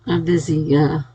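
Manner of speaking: talking through a yawn; words stretched by a yawn. Real, not acted. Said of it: "yawning here".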